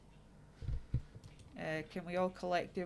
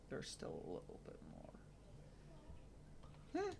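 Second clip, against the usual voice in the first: imitated critical child; 10 semitones higher, 13 dB quieter than usual. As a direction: murmur it like a fussy little inspector. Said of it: "And she's like".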